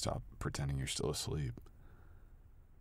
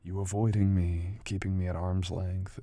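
louder accusation; accusing; 3 semitones higher, 8 dB louder than usual. Acted. Partner accusing her of avoidance, louder. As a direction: lay the charge on her.

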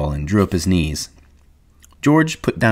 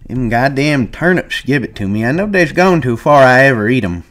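put-on old man voice; 5 semitones higher than usual.

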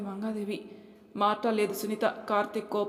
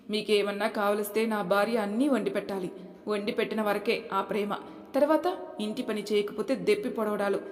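raised, forceful voice; firm, loud; 3 dB louder than usual. Acted. Son firmly rebukes his mother and sister, loud. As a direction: speak out firmly. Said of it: "అని గట్టిగా మాట్లాడాడు కార్తీక్".

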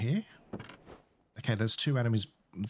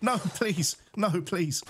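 higher-pitched begging, falling each time; pleading; 5 semitones higher, slower than usual. Real, not acted. Player running past enemies, pleading. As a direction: plead to be left alone.

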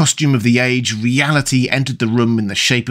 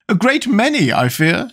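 mild cry; 9 semitones higher than usual. A narrator's reading. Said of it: "she cried".

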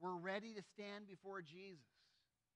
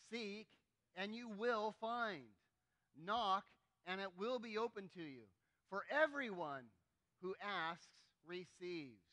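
loud, slow scripture reading; recitation aloud; 4 dB louder, slower than usual. Shown as a demonstration. Pastor leading the church in reading Scripture, firm and loud. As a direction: read it out together with the church. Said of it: "Let me hear you read this out loud".

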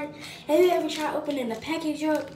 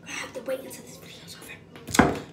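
whispering. Real, not acted. Quiet aside while filming.

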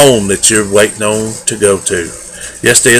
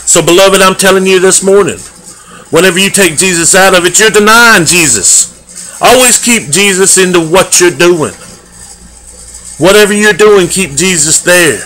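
raised, urgent exhortation; earnest preaching; 4 semitones higher than usual. Real, not acted. Preacher urging the congregation not to deny Jesus, earnest preaching.

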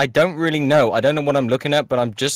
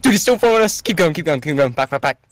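being chased; 4 semitones higher than usual. Acted. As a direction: yell to keep running. Alien still following.

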